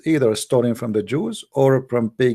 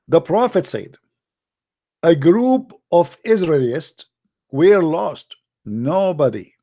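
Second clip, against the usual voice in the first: high, sarcastic awe, much higher than his usual voice; mock reverent preaching; 6 semitones higher than usual. Host mocking the rat hadith to his viewers, in high sarcastic awe. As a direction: sell the hadith like a devout preacher, dripping irony.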